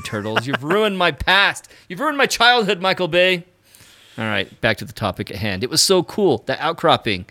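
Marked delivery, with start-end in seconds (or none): 0.5-3.4 mock outrage. Mock outrage at Michael Bay.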